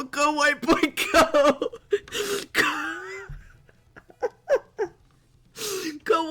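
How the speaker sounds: high, tearful laughing cheer; helpless laughter. Real, not acted. Streamer cheering the dancing white boy, hysterically laughing. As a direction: hype someone up while crying with laughter. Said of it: "I can't stop laughing".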